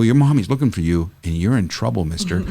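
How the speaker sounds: mock stern. Retold gentle scolding of lost boy.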